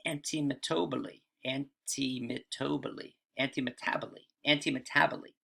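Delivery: antimetaboly said slowly, syllable by syllable, an-ti-me-TA-bo-ly; slow pronunciation drill. Shown as a demonstration. Teacher drilling the Greek term antimetaboly for students, slow and careful. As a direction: repeat antimetaboly carefully, stress on the TA. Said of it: "they're tough to pronounce in English".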